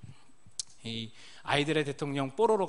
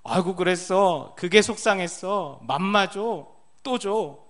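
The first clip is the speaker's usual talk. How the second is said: put-on higher, louder, slow cooing to a toddler; baby talk; 5 semitones higher, 10 dB louder, slower than usual. Dad answering his babbling baby son, loud cooing baby talk. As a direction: coo back at the babbling baby. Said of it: "그 외계어를 듣고요".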